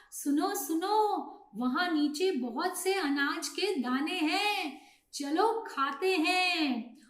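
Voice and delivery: rally the flock to come and eat; mildly excited storybook bird; eager pigeon calling. Acted.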